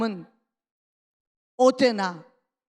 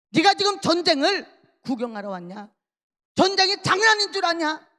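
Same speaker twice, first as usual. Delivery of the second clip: acted scolding, rising to a higher pitch; Eliab; 4 semitones higher, 3 dB louder than usual. Eldest brother scolding David for coming to watch war, raised voice. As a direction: tell him off with mounting indignation. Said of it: "오히려 소리를 칩니다".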